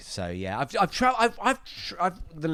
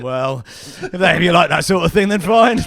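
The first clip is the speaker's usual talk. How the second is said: sniffy unimpressed retort; 2 semitones higher, 11 dB louder than usual. Retold or imitated. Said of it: "I genuinely thought you went".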